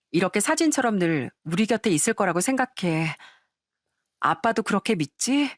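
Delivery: a lightly voiced grown daughter, tender and grateful. Daughter hugging her father on his birthday, tenderly grateful.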